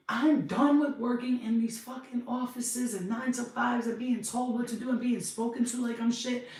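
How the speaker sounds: fed-up rant. Retold or imitated. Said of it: "I remember going".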